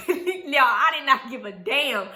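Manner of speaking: laughing while telling. Real, not acted. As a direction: speak through a chuckle. Laughing over the snack dump.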